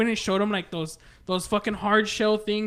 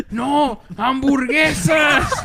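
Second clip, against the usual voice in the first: slow, louder, higher, laughing through it; insistent customer, laughing; 5 semitones higher, 4 dB louder, much slower than usual. Retold or imitated. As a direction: drag out hamburguesas, cracking up. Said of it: "And then he's like".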